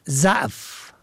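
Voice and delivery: ضعف said "za'f"; فتحه on first letter. Shown as a demonstration. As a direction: say ضعف with a short a after z. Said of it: "به فتح اول". (ضعف با فتحهٔ ض: ضَعف)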